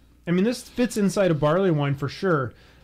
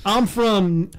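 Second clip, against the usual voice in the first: slow, louder mock Norwegian accent; jokey Norwegian accent; 3 semitones higher, 5 dB louder, much slower than usual. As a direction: ham up a Norwegian saying where he's from. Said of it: "Where are you from".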